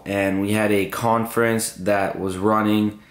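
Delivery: hoarse, worn-out voice. Real, not acted. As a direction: talk through a lost voice. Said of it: "This is not my regular voice".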